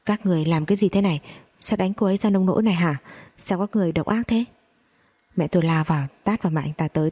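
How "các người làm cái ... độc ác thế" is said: fast, mildly raised rebuke; angry shout. Acted. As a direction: snap at them, quick and indignant. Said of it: "anh ta trợn mắt lên quát chúng tôi".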